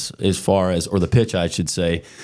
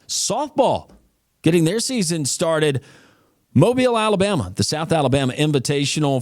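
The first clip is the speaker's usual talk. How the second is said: upbeat, higher sportscaster's round-up voice; sports news read; 5 semitones higher than usual. Acted. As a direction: rattle off the scores like a campus sports anchor.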